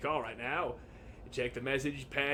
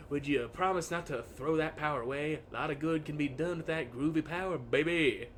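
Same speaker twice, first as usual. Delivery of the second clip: lightly voiced hip cat; a hint of laid-back seventies swagger; groovy hipster. Charles coaxing the dinosaur to keep the watch's power, mildly groovy. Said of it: "Charles doesn't call me baby".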